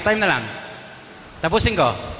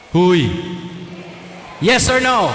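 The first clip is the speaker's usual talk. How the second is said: calling out; 3 semitones higher, 3 dB louder, slower than usual. Real, not acted. Pressing congregation for answer.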